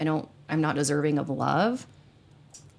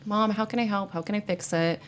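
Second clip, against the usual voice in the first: lightly voiced son, starting higher; son wanting to help; 5 semitones higher than usual. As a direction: imitate a son eager to fix things. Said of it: "he wants to fix it".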